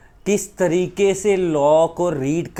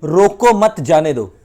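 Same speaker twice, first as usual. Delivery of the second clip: deliberate, louder example line; example sentence; 6 dB louder, slower than usual. Shown as a demonstration. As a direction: read "रोको मत जाने दो" slowly and loudly as one line. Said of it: "class में example देता हूँ".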